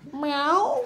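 high, rising meow; cat meow. Acted. Plays a cat in a bit.

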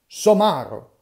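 loud, high shouted insult. Acted. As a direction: yell it in his face.

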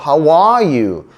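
"How are you?" with ARE drawn out and punched; stress in the middle. Shown as a demonstration. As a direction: hit "are" in the middle, then fall away. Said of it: "의문사가 있을 때는 가운데 강세가". (가운데 "are"를 길게 강조)

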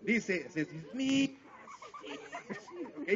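ordinary talk, nothing marked

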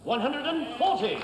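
darts score caller. Real, not acted. Darts caller announcing a big score.

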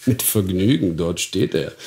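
amused barber's voice, laughter leading in; laughing. A narrator's reading. Barber obliging the odd little customer, laughing. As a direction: laugh first, then talk through it. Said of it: "rief der Barbier lachend".

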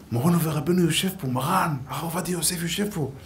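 hushed mock awe; softly alarmed reverence; awed hush. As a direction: drop the voice as if a great rabbi is present. Imagined awe before a revered rabbi.

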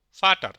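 "ফাটার" loudly with an initial f sound. Shown as a demonstration. Teacher giving the German V example, f sound in "ফাটার". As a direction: open "ফাটার" on a clear f. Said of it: "এফ এর মতো".

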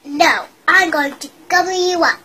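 loud, fast troll threat. Acted. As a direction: snap it out like a hungry troll. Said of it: "the big fat troll said".

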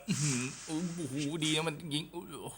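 surprised. Real, not acted. Close call in the game.

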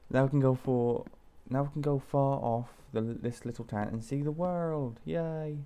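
amateur Welsh lilt reading a diary; attempted Welsh accent. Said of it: "That's my attempt at a Welsh accent".

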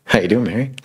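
beaming, close to laughing; a touch of chuckling delight; happy grinning greeting. Acted. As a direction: greet her like a happy puppy. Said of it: "like a happy puppy".

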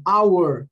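hour drawn out slowly as AW-er; slow pronunciation demo. Shown as a demonstration. Teacher repeating hour slowly for the class. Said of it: "Vou até botar aqui a pronúncia".

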